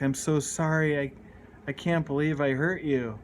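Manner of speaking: tearful, pleading apology; a touch of sobbing remorse; crying apology. Retold or imitated. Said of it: "and I'm crying".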